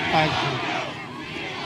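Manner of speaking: breathy whispered thanks, hammed-up emotion; mock choked-up whisper. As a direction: pretend to be moved to tears, just a whisper. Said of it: "you're gonna make me cry with that".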